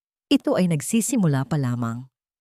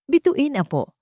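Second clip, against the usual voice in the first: gentle; 10 semitones higher, 3 dB louder than usual. A narrator's reading. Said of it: "mahinahon niyang sabi".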